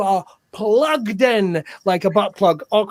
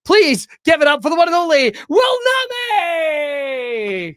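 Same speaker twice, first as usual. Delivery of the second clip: big compere shout; announcer shout; 7 semitones higher than usual. Acted. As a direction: belt out the name like a ring announcer. Host announcing guest.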